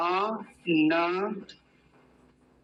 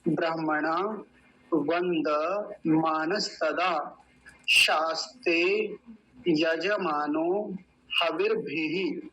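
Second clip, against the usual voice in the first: slow, measured mantra chanting; slow Sanskrit chant; Vedic mantra recitation; much slower than usual. Shown as a demonstration. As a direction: recite each word slowly like a priest. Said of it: "ये उच्चारण पूरा हुआ".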